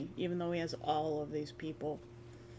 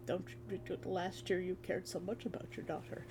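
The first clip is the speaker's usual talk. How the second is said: softer, reproachful; 7 dB quieter than usual. Retold or imitated. Player reproaching Jonathan about his daughter, soft. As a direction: quietly call out the hypocrisy.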